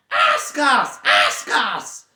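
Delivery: loud, high, urgent creature cry; Gollum demanding. Acted. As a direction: snap it at him, impatient. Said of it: "said Gollum".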